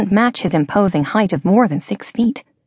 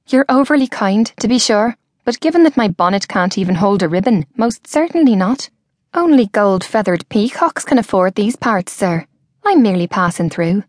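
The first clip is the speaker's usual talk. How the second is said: lightly voiced young woman, wry and brisk; playful young woman. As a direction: brush off the compliment with a light touch. Georgia deflects his compliment.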